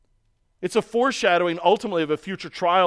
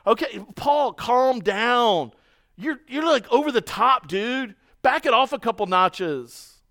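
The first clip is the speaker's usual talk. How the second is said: higher, patronizing calm-down voice; mocking the critics; 5 semitones higher, slower than usual. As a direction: talk down to him as if he's overreacting. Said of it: "Paul's the problem".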